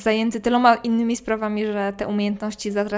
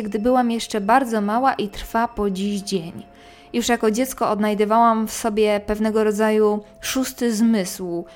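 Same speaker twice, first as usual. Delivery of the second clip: measured storyteller reading a first-person ghost tale; scary story narration. A narrator's reading. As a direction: narrate an eerie true story, pausing between phrases. Reads a listener's ghost story aloud. (opowiadanie strasznej historii, głos lektorki)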